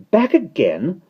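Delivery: high, loud sharp question; snapped. A narrator's reading. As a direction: snap it at an unwelcome visitor. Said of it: "snapped Mary Poppins".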